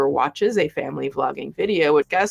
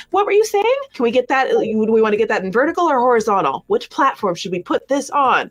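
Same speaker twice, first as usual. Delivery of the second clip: mocking mom voice; 5 semitones higher, faster than usual. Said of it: "And she's like".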